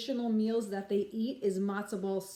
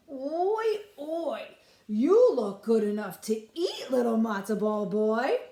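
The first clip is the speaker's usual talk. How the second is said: lightly voiced greedy tailor, louder; a hint of hungry tailor; 5 dB louder than usual. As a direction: lick your lips over him. Hungry tailor eyeing the boy.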